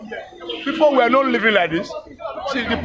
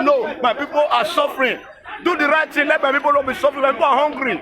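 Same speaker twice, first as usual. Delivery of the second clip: pitched higher, preacher pleading for the people; imagined pastor speaking out; 5 semitones higher than usual. Pretend. Pastor protesting to the government, raised higher pleading. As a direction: cry out for the suffering like a bold pastor.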